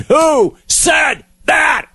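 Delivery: very high, very slow scream, word by word. Retold or imitated. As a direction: hammer out each word as if pounding a fist. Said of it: "he screamed".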